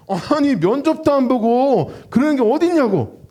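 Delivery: slow, indignant retold complaint; angry candidates protesting, mildly hammed-up; mock angry protest. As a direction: play the annoyed applicants. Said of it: "다들 막 화가 난 거예요".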